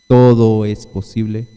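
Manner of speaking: slow, weighty declaration; the Lord answering the doubters, slow and solemn; solemn emphasis. Acted. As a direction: lean on each word, slowly. Preacher voicing the Lord's words.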